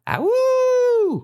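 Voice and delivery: long, very high imitated howl; wolf howl. Shown as a demonstration. Teacher showing students the wolf, high drawn-out howl.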